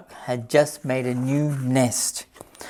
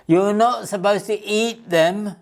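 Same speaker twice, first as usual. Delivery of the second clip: shouted; 5 semitones higher than usual. Acted. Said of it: "shouted Dora".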